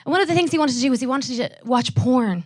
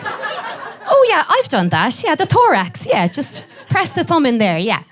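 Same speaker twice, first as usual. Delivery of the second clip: knowing audience member; slower than usual. Acted. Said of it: "a lot of knowing laughs".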